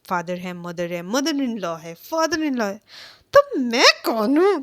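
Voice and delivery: fed up, rising to a frustrated demand; irritated husband losing patience with everyone. Retold or imitated. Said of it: "irritate लेके".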